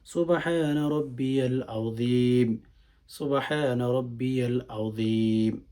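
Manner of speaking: slow, measured tasbih, each phrase unhurried; slowly. Shown as a demonstration. Teacher showing how to say the ruku tasbih slowly, unhurried. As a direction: take your time on every সুবহানা রাব্বিয়াল আযীম. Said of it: "আস্তে আস্তে, ধীরে ধীরে".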